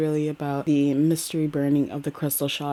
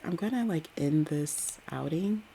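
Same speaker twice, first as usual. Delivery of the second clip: whispered aside; 6 dB quieter than usual. Real, not acted. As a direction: breathe it out, barely voiced. Closing the outing, whispered aside.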